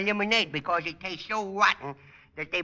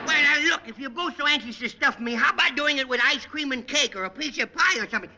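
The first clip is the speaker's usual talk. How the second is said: put-on bratty kid voice; 4 semitones higher, 3 dB louder than usual. Junior character voice throughout.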